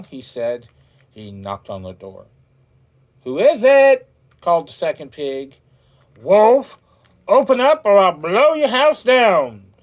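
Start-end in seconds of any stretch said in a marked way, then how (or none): 3.2-4.1 much higher, loud little pig voice; high pig call. A narrator's reading. Second pig calls out to the wolf, high squeaky voice. 6.2-9.7 high, loud, menacing shout; wolf's threat. A narrator's reading. Wolf threatens second pig, loud menacing shout.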